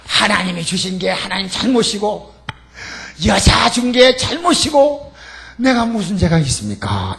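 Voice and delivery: hammed-up whining excuse, drawn out; mock indignant blame. Adam protesting to God, slow indignant blame.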